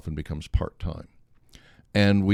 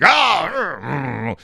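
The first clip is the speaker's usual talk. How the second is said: frustrated grunts; 10 semitones higher, 5 dB louder, much slower than usual. Retold or imitated. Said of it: "and he stormed off".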